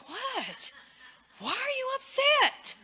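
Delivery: high, sharp reply, imitating her own tone; a snappy "what, why are you upset", replayed; mock-defensive snap at her husband. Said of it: "I have a very good tone that just puts it right out there".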